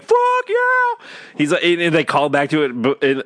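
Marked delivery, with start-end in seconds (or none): 0.0-1.1 excited cheer. Retold or imitated. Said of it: "I'm like".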